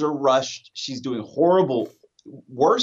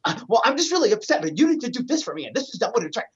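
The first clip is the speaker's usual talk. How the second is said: whiny complaint; 8 semitones higher, faster than usual. Retold or imitated. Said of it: "she starts".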